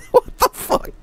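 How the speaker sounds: breathless whisper; whispered disbelief. Real, not acted. Streamer whispering in disbelief after a scare. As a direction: whisper it, still shaken.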